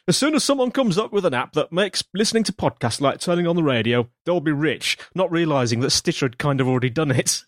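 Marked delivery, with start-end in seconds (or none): 0.1-5.0 light Northern English accent, a bit higher, slowing at the end. Shown as a demonstration. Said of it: "but I'll say it in a northern voice".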